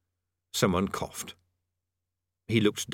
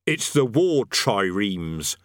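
cheerful; 3 dB louder, much slower than usual. Acted. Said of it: "said the sergeant cheerfully".

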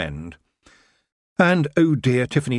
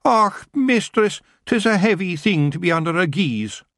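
Scottish moan; 9 semitones higher than usual. Acted. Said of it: "Rob moaned".

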